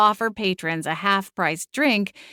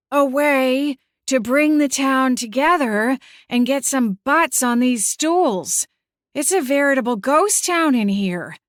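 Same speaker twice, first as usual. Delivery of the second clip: aunt making a pitch; 6 semitones higher, 4 dB louder than usual. Acted. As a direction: sell it grandly in a higher voice. Voices Aunt Lavender pitching.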